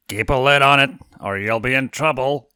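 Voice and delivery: mock growling threat; playful growl. A narrator's reading. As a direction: growl it as a flirty warning. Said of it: "he growled".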